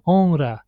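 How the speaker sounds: "honra" with a weak single R after N; simple R, mistaken. Shown as a demonstration. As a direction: say "honra" without rolling the R. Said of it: "should be pronounced, uh, like".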